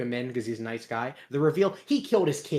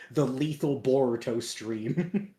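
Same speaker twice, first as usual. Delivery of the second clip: attack announcement; slower than usual. Acted. Announces a cartoon attack's name.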